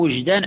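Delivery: وجدا with a short u, "wujdan"; u vowel on waw. Shown as a demonstration. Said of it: "مثلث الواو".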